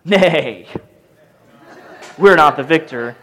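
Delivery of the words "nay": usual speaking voice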